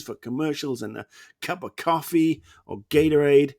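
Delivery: mock dismissive quote with swinging pitch; lightly hammed-up mockery. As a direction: put on a scoffing take on a rival's plans. Mockingly acts out inventors of American football.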